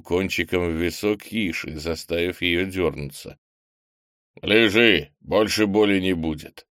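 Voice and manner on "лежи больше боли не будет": stern. Acted. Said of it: "строго сказал Крис".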